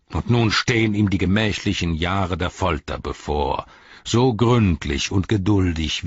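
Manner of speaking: mocking, scornful herald voice; a sneering messenger of the enemy mocking the captains; sneering envoy. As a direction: taunt the wizard with contempt. Mouth of Sauron voiced.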